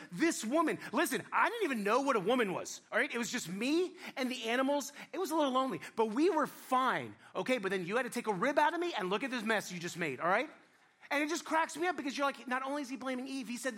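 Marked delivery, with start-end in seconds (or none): 0.1-10.5 louder, exasperated griping at God; aggrieved man scolding God over his new wife; complaining Adam. Acted. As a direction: whine about the rib like it's God's fault. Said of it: "He's like".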